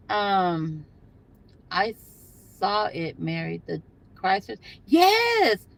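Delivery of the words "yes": high, loud triumphant shout; excited yes. Real, not acted. Catching the speeding Chrysler on camera, triumphant shout. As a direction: call it out like you caught them.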